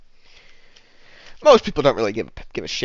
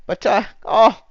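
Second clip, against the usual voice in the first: higher, louder gushing bartender; 8 semitones higher, 8 dB louder than usual. Acted. Bartender who never heard of the self-styled Great, loud high-pitched gushing. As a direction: humour him with big, high-pitched encouragement. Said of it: "and she says".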